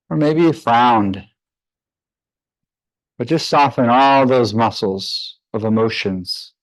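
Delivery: measured meditation guidance with long pauses; guided meditation. Real, not acted. Yoga teacher leading students into breath practice, guided meditation voice. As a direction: guide them calmly through the breath, leaving space between phrases.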